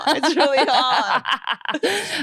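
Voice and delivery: swallowed wrong way, choking; half-choked words; choking on saliva. Real, not acted. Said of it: "I'm choking on my saliva".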